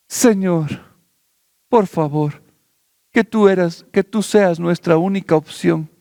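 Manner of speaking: oración suplicante suave; gentle prayer. Acted. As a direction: ask humbly for grace. Quieter continuing prayer.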